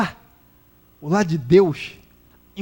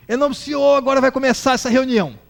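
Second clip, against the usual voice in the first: higher preacher's announcement; pastor opening service; 4 semitones higher, 4 dB louder than usual. Retold or imitated. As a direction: imitate a pastor launching the meeting.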